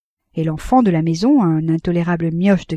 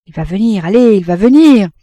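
repeated assurance; 2 semitones higher, 9 dB louder than usual. A narrator's reading. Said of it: "en répétant".

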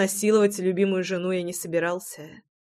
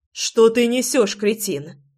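slow, higher and louder outraged retort; raised voice; 3 semitones higher, 3 dB louder, slower than usual. Acted. Wife snaps at her pushy husband, raised voice. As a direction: push him away with a raised voice. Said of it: "повысила голос Руслана".

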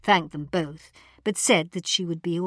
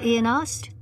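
ordinary delivery

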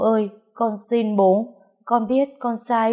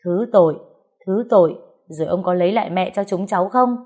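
furious yelling; 5 dB louder than usual. Acted. Grieving child screaming at the man blamed for mother's death, furious. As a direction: spit the mocking words back, building to a shriek. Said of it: "điên điên lên chửi bới".

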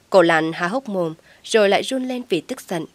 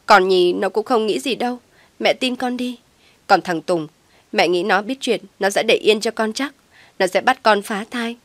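shouting back; 2 semitones higher, 3 dB louder than usual. Acted. Daughter shouts back defending herself. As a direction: yell back at mother. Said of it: "Linh cũng gào lên".

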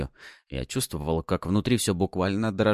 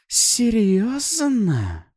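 slow, high, drawn-out scoff; sneering demon; 13 semitones higher, 5 dB louder, much slower than usual. Acted. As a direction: taunt him with disbelief. Succubus mocks.

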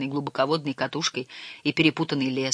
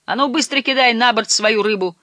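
raised-pitch brisk command; decisive order; 6 semitones higher, 4 dB louder than usual. A narrator's reading. Skipper ordering uncle to unload fish, decisive. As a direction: give a firm order, no discussion. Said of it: "решительно распорядился он".

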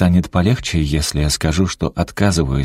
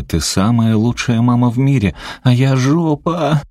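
tearful self-reproach; 8 semitones higher than usual. A narrator's reading. Crying daughter calls herself a jerk, wailing high. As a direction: sob it out, blaming yourself.

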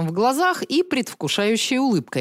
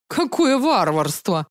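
sobbing; slower than usual. Acted. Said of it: "всхлипнул маньяк-висельник".

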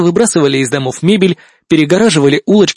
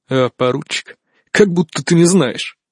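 grumbling. Acted. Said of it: "вяло махнул рукой и буркнул".

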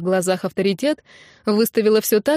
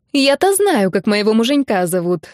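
smug boast; 3 dB louder than usual. Acted. Nina boasting.

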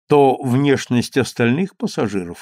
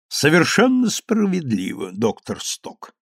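majestic; 4 semitones higher than usual. Acted. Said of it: "величаво ответствовал Херон Сподовеккио".

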